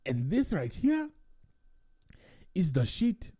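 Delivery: lightly voiced proud bartender; guy boasting about his rum to a tourist; mock boastful local. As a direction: savor the praise of the rum.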